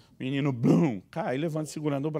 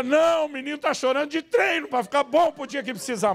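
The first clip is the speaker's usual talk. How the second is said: higher, louder sarcastic yell; sarcastic shout; 10 semitones higher, 6 dB louder than usual. Retold or imitated. Preacher voicing the reply he wanted to shout, higher and louder. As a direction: blurt the sarcasm out loud. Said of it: "A minha vontade é gritar".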